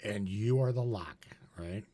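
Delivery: sudden unvoiced whisper; whispered playful aside. Real, not acted. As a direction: drop to a hushed tease. Teasing aside to the host.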